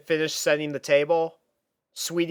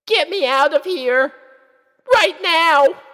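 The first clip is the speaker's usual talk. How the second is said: high, loud desperate plea; frantic young filly; panicked filly; 8 dB louder than usual. Acted. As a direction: scream inside your head to escape.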